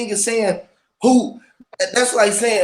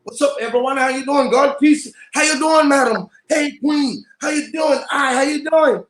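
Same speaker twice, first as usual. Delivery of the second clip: bright, upbeat greetings lifting higher as they go; greeting strangers, warmly hyped up; cheerful greetings; 4 semitones higher than usual. Retold or imitated. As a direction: greet everyone like you're glad to see them. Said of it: "I say".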